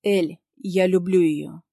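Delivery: медленно и спокойно, без страха; сказать твёрдо и бесстрашно. Acted. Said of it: "выдаёт мне бесстрашно". (Ник бесстрашно признаётся в любви)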